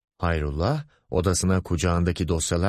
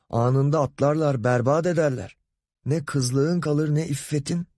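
mock-protective boss, climbing higher in pitch; lightly voiced lecherous boss; 5 semitones higher than usual. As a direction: warn with put-on fatherly alarm. Boss warning secretary about men. (sahte korumacı, evhamlı müdür)

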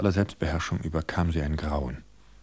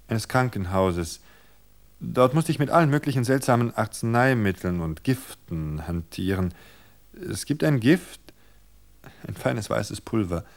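higher, deliberate storytelling; wife's poison tale; 4 semitones higher, 4 dB louder than usual. Acted. Wife tempting her husband with poison talk, deliberate.

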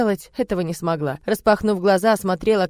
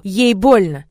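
hissed at her; 7 dB louder, much slower than usual. Acted. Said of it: "процедил".

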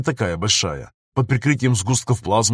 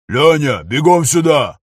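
louder call across the cabin; louder gunner shouting for help; 3 semitones higher, 6 dB louder, slower than usual. Acted. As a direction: yell for him to run over. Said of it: "кричит Денис".

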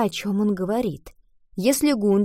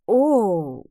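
mildly surprised, at a loss; exclaim, lost for a reply; a touch of awkward surprise; taken aback exclamation; 4 dB louder than usual. A narrator's reading. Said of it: "воскликнул Адам".

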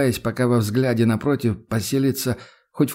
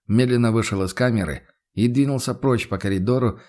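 ordinary delivery, nothing marked

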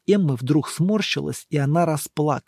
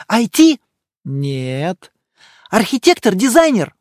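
higher, louder eager female guesses; Emma guessing; 3 semitones higher, 5 dB louder than usual. A narrator's reading. Emma guessing the monk's job, eager questions. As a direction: toss out each guess brightly.

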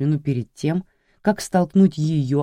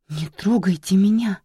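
испуганный крик; 5 semitones higher than usual. Acted. Жертва отбивается.

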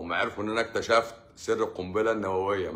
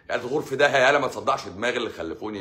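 mock angry snap; 3 semitones higher, 5 dB louder, faster than usual. Mock rude reply to goodnight.

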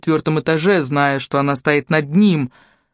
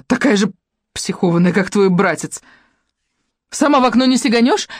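mocking taunt; 5 semitones higher than usual. A narrator's reading. Tomsha taunts Polina.

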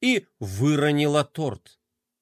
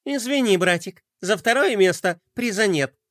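sarcastic remark; 3 semitones higher than usual. Acted. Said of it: "язвительно заметила".

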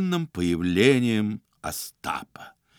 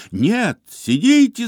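high loud, slow cry to stay seated; shouting; 11 semitones higher, 7 dB louder than usual. A narrator's reading. Iznurenkov shielding the chair from Ostap, loud high shout. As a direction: shout to stop her getting up. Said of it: "закричал Изнурёнков".

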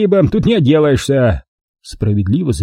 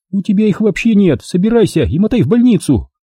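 high, curt orders; Milka, bossy; 9 semitones higher than usual. A narrator's reading. Milka telling him to go to hospital, high and curt.

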